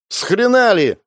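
high, loud defiant yell; shouted. Acted. Fan yelling back at the first mate, a high loud shout. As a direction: yell it back from behind the crowd. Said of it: "выкрикнул он из-за спин людей".

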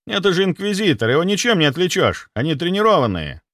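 high, anxious middle-aged doctor voice; panicking clinic head. Acted. Clinic head panicking to the doctor, high and anxious. Somov objects.

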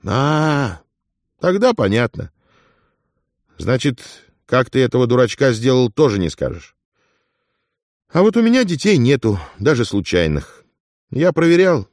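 a lively, knowing companion; Afonya, lively friend. Acted.

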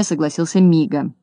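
usual speaking voice

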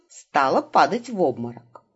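ordinary delivery, nothing marked

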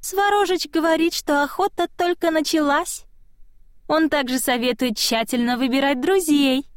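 high spirit voice turning mocking; a tiny voice teasing with a hidden giggle; high sly childlike voice; small child voice. A narrator's reading. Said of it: "захихикал голосок".

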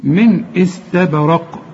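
slow "من استبرق" with the b bounced; qalqala recitation. Shown as a demonstration. Teacher shows the bounced baa, slow "من استبرق". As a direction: release the b of "استبرق" with a short echo. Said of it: "الباء هنا هقلقلها".

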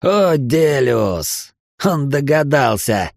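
mocking laughter. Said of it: "расхохотался Эл".

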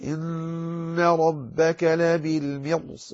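slow, sustained tajweed chant; Quranic recitation. Shown as a demonstration. Teacher reciting an example verse, slow tajweed chant. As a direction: recite slowly, drawing out nasals and vowels.

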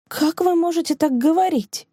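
high-pitched cry of disbelief; indignant cry. Acted. Rosina cries out at her teacher's forgiveness. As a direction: throw the question at her in protest. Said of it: "крикнула Розина".

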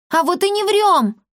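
put-on high, heated childish retort; exclaiming. A narrator's reading. Girl denies lying to the boy, high exclaim. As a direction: shoot back with a high protest. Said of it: "воскликнула Маришка".

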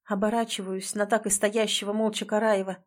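usual speaking voice

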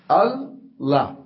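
الله said very slowly, alif lengthened; slow recitation demo; drawn-out Allah. Shown as a demonstration. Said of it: "الله بحد ذاتها فيها لامان".

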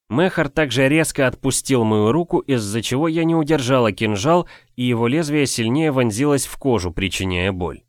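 usual speaking voice

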